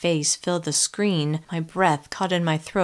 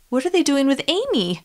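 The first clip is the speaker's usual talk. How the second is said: high, panicky cry of disbelief; rising hysterical question; on the edge of hysteria; 8 semitones higher than usual. Acted. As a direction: voice near breaking with panic. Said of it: "my voice on the edge of hysteria".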